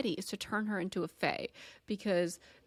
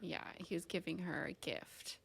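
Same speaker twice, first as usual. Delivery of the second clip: whispering; 11 dB quieter than usual. Real, not acted. Swooning whisper over romance.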